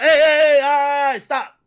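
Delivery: loud, high DJ shout into the mic; imitating a DJ yelling stop over the club speakers; DJ calling out. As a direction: cut the party off like the DJ. DJ halts the club party.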